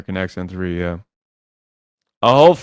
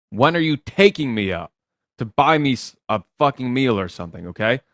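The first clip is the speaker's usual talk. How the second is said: sassy demo. Shown as a demonstration. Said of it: "but that's your attitude".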